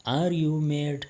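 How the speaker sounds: Are you mad, slowed, leaning on are; slow teaching repeat. Shown as a demonstration. Teacher repeats the question slowly for Pashto learners. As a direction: stretch it out for learners to echo.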